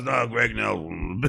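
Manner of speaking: lightly voiced mumbling ballplayer; a hint of Mickey Rivers, slightly slow; slow, offhand Mickey Rivers quote; Mickey Rivers impression. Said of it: "that's your Mickey Rivers impression".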